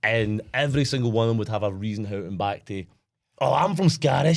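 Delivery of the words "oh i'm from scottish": slowed-down, lightly mocked American voice; mock American accent. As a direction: imitate an American claiming roots. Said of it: "I worked with all these, uh, Americans".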